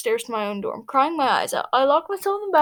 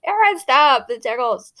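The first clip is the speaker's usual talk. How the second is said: louder, laughing protest; shouting between laughs; 7 dB louder, slower than usual. A narrator's reading. Being tickled by Aaron, laughing shout. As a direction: squeal it while being tickled. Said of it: "I shouted between laughs".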